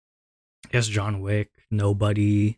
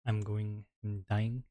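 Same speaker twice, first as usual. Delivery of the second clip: winded after push-ups; panting out of breath; 2 semitones lower, 14 dB quieter than usual. Real, not acted. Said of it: "I need to catch my breath".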